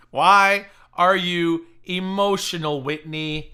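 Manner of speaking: slow, laughing taunt. Pretend. Teasing a rival on stream with slow laughing mockery. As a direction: stretch the question out through a laugh. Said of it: "taunting Whitney, laughing".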